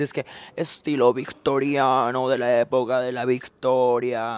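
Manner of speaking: a lightly pompous know-it-all; mock expert. To viewers about the room, lightly pompous mock expert. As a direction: play the fake expert, a little grand. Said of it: "Yo iba a decir".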